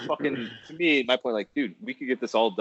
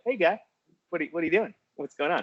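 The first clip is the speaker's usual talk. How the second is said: cop voice; 7 semitones higher, faster than usual. Retold or imitated. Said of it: "cops right there, like".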